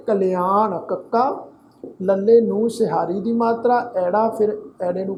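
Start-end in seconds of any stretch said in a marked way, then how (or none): 0.1-0.8 ਕਲਿਆਣ as "ka-li-aan"; ਕਲਿਆਣ, drawn out on the last syllable; careful pronunciation. Shown as a demonstration. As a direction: sound out ਕਲਿਆਣ with a short i before the long aa. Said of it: "ਇਹਦਾ ਪਾਠ ਉਚਾਰਨ ਕਰਾਂਗੇ".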